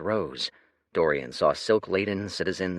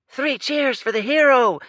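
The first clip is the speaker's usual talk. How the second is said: crowd cry; 9 dB louder than usual. Acted. A voice from the crowd cheering the Lord, loud and high. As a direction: call it out over the crowd. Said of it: "said another".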